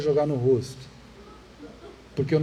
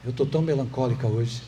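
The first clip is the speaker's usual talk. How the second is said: mock child's voice; 5 semitones lower than usual. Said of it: "fala assim".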